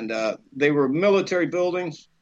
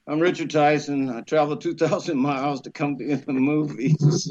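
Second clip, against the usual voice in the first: tired. Retold or imitated. Young actor at the ninth door, sweating and tired. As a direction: give the rehearsed pitch wearily, without any lift. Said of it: "Now I'm sweating, I'm tired".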